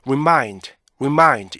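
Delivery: "remind" with a short, stopped first syllable; "remind" as rip-MIND, first beat brief; correct REMIND rhythm. Shown as a demonstration. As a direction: clip "re" short, let "mind" fall. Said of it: "이렇게 발음하셔야 되는데".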